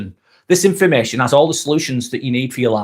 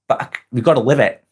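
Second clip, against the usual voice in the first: talking around a shell in the mouth; mouth full; 3 semitones lower, faster than usual. Real, not acted. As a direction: speak with something in your mouth. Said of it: "I've got a shell in my mouth".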